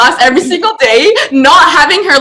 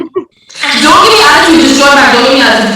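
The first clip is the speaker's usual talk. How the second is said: scolding; 6 dB louder than usual. Retold or imitated. Scolding friend to rejoin call.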